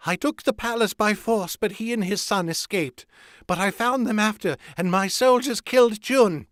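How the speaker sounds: very high, panicked confession; desperate cry. A narrator's reading. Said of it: "cried Wojin".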